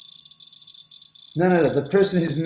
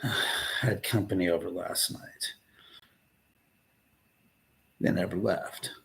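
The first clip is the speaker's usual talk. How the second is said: whispering; 7 semitones lower, 5 dB quieter than usual. Acted. Whispered deadpan joke.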